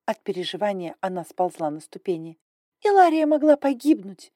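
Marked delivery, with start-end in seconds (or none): none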